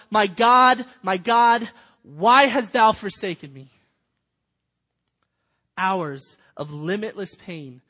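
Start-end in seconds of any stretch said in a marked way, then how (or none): 0.1-3.7 crying out at full force, high and much louder; a desperate shout to God from the cross; anguished scream. Acted. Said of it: "he screams out".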